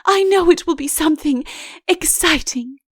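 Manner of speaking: eager. Acted.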